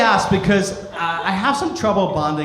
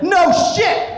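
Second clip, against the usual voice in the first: much higher, louder mock outrage; sarcastic shout; 11 semitones higher, 5 dB louder than usual. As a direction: blurt it sarcastically.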